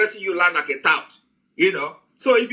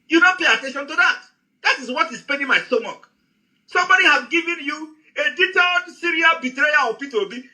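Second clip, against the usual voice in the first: raised, higher-pitched angry ranting; fired-up rebuke pitched higher; heated shouting; 5 semitones higher than usual. Real, not acted. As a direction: shout him down in anger. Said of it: "that is why I'm shouting the way I'm shouting".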